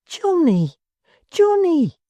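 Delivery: a simple-hearted fellow crying over his ruined friend; tearful lament. A narrator's reading. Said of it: "cried outright and wrung his hands".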